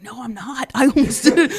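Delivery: laughing denial. Retold or imitated. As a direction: laugh while protesting. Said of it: "I was like".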